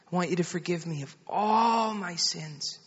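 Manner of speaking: lightly voiced mother leading, lingering on "all"; soft prayer line for a child to repeat. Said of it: "You just pray after me".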